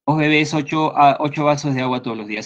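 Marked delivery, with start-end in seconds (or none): 0.0-0.5 "bebés" with the accent at the end, be-BÉS; stress on last syllable. Shown as a demonstration. Teacher giving an Argentine example sentence, "bebés" stressed on BÉS. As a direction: push the final BÉS of "bebés". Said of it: "Y se acentúa".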